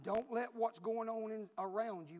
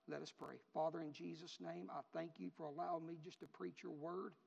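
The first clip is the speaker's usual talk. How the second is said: prayer; 2 semitones lower, 4 dB quieter than usual. Real, not acted. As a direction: settle down and quietly address God. Leads closing prayer.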